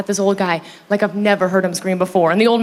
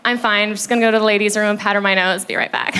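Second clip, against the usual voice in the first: hurried, lowered cover-up; feigned composure; 2 semitones lower than usual. Retold or imitated. Woman excuses herself to friends, hurried feigned calm. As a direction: rattle it off, pretending all is fine. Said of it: "I'm like".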